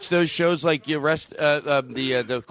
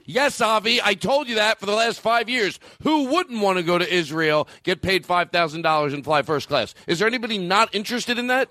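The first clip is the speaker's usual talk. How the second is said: higher-pitched, exasperated retort; exasperated reply; 3 semitones higher than usual. Retold or imitated. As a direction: answer as if asked yearly, exasperated. Acted exasperated reply to Avi.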